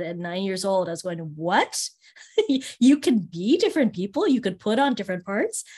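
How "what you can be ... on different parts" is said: amazed. Retold or imitated. Her amazement as a child.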